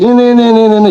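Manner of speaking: mock loud reading drill; loud read-aloud; reading aloud loudly. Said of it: "dibaca keras-keras".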